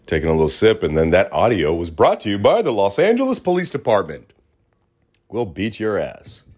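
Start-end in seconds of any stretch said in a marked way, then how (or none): 1.1-6.4 mock sponsor read. Joking sponsor read over sirens.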